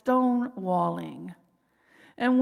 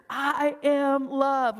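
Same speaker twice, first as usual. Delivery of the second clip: drawn-out, sincere I am love; slow affirmation; 2 semitones higher, much slower than usual. Shown as a demonstration. Speaker leading the group to affirm themselves, slowly. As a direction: stretch each word out gently. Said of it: "Let's own our loving nature".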